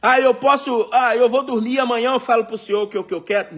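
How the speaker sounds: mock stalling servant. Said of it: "Nehemiah stalling, pretend".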